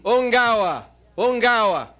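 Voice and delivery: mild mock yell, each cry falling; mock tribal yell. After-dinner speaker imitates a tribe cheering the coach, mild mock yell. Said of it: "they all yelled and screamed".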